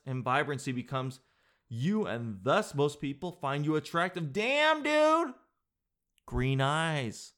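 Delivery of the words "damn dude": high, loud burst of amazement; impressed exclamation. Real, not acted. Host reacts to the flattering green-eyes reading, amazed. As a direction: cry out, hugely impressed.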